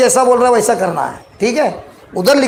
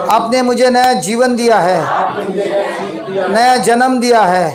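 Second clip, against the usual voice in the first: measured prayer in short phrases; led prayer; 3 semitones lower than usual. Real, not acted. Preacher leads congregation to repeat, measured prayer. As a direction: pray it phrase by phrase, leaving room for echo.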